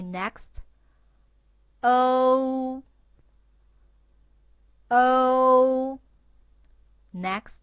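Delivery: drawn out and loud model sounds; slow school dictation. Shown as a demonstration. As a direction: read each sound out slowly for repeating. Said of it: "please read after me".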